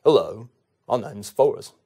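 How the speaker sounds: low, slow, simple-hearted introduction; Forrest Gump. Acted. Gump introduces himself to the audience, slow earnest impersonation. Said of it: "Forrest Gump".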